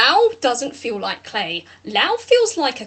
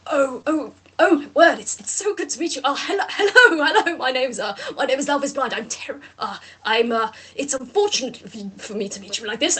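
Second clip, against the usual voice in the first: nervous Lau. Acted.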